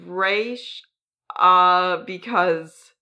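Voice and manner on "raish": "Raish" rhyming with "aysh", ending in sh; habitual pronunciation. Shown as a demonstration. Host shows listeners how they always say it, "Raish" with an sh. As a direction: say "Raish" with a long ay and soft sh. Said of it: "I've always said".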